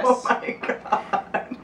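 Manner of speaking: slow, breathless laughing oh my God; laughing gasp. Real, not acted. Receiving the certificate.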